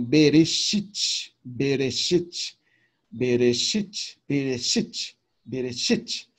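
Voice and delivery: Bereshit said slowly and syllable by syllable, the shevá a quick E; teacher modelling Bereshit for students to repeat; pronúncia didática de Bereshit; Hebrew word demo. Shown as a demonstration. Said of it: "Você fala mais rápido o Sheval de Bereshit".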